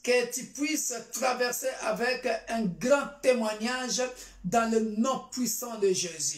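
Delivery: fervent, declarative church prayer; solemn prayer petition; prayer declaration. Real, not acted. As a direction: pray it out firmly over the congregation. Leads congregation in prayer.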